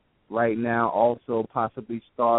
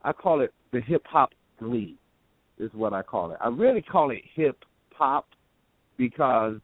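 cutting out; 3 semitones higher than usual. Real, not acted. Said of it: "You went out though".

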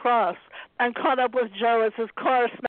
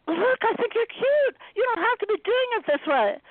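nervous pleading; 12 semitones higher than usual. Acted. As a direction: coax him gently through fear. Anna pleading, flattering.

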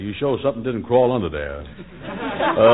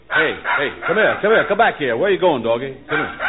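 calling a dog; 3 semitones higher than usual. Acted. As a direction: coax the dog back, calling out.

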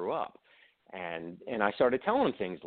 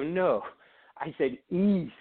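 mock-insistent correction; 8 semitones higher, slower than usual. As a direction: correct him firmly, stressing East. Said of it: "And I go".

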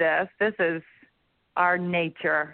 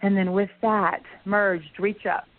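calm meditation voice with long pauses; guided meditation. Acted. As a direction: guide them gently into the light.

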